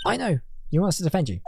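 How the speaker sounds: high, sudden burst of realisation; eager blurt. Acted. Blurting out a guess to the client, eager and high.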